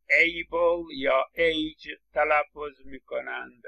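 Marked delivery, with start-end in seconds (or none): 0.1-2.0 able and age said slowly, as whole words with a full vowel; wrong full-vowel suffix. Shown as a demonstration. Teacher mimics students' wrong suffix: slow, full vowels. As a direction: mimic learners who stretch the suffix out slowly. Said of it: "اونایی که وارد نیستند".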